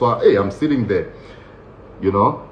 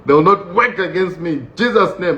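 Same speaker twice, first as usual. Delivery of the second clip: mock prayer; 3 semitones higher than usual. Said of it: "I started speaking in tongues".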